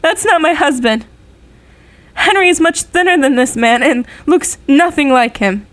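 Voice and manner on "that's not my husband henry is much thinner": tearful relief. Acted. Widow sees photo of body.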